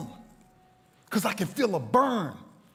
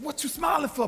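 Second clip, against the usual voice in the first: puzzled doctor; 8 semitones higher than usual. Retold or imitated.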